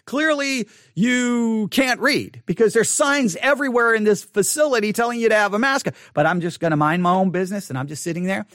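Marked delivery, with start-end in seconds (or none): 0.0-5.9 sarcastic. Retold or imitated. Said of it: "I really wanted to ask".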